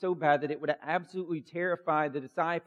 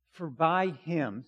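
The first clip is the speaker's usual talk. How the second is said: slow, weighty reading; scripture reading; slower than usual. Acted. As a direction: read each word like it matters. Reads Colossians aloud.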